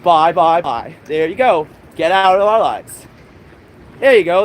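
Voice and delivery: loud mocking bye and get out; loud dismissal. Real, not acted. Streamer brushing off missionaries, loud and mocking. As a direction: shout them off with a sneer.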